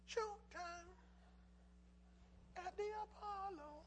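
high, drawn-out announcer call of the show name. Retold or imitated. Preacher mimicking the Apollo announcer for his congregation, high and drawn out. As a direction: belt it like the Apollo host introducing the night.

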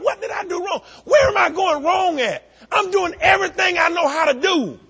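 high, loud despairing shout; frustrated outcry. Retold or imitated. Preacher reliving his doubts after a sermon, loud anguished shout. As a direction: cry out in frustration at yourself.

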